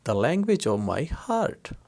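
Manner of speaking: "the language of my heart" said very slowly, word by word; slow translation. Shown as a demonstration. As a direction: spell out the English gloss slowly. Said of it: "English में कहेंगे". (बहुत धीरे धीरे अंग्रेज़ी अनुवाद)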